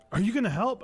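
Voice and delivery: demanding mock shout. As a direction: bark the question like the annoyed driver. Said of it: "yelling at me on the phone".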